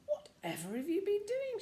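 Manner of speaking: high, astonished mother's cry. A narrator's reading. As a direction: gasp it out at the state of them. Mummy sees bruised children.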